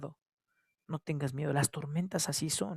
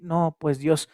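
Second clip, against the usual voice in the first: despairing complaint; 8 dB louder than usual. Retold or imitated. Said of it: "la impotencia no nos lleve a decir".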